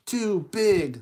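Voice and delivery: emphatic verdict. Acted. Verdict on the slipper fitting.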